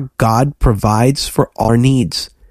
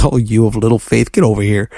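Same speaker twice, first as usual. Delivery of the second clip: lower, lightly amused voice of a forgiving master; smiling gentle chiding; 4 semitones lower than usual. Retold or imitated. Preacher voicing Jesus to sinking Peter, smiling mild chiding. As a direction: imitate a fond scolding with a smile. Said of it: "And Jesus smiles".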